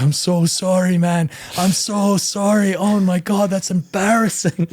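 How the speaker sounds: hammed-up sheepish sorry through laughter; a hint of a mortified friend; mock apology. Voicing embarrassed Joe, laughing.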